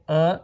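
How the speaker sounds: "a" said as a short "uh"; northern schwa. Shown as a demonstration. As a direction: say "a" as in Hindi, a neutral schwa. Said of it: "Nepali, Hindi, Konkani, Marathi, they'll say".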